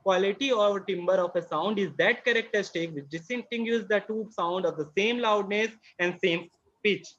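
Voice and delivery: reads each word very slowly for notes; slow classroom dictation voice. Acted. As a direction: dictate it word by word so they can write. Teacher dictating definition slowly.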